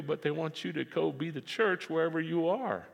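ordinary talk

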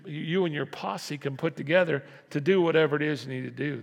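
ordinary talk

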